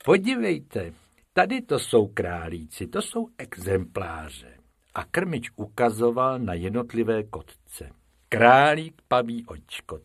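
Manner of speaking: lightly voiced proud keeper; keeper's voice. The keeper lecturing Bob and Bobek, proud. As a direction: show off the fine rabbits with pride.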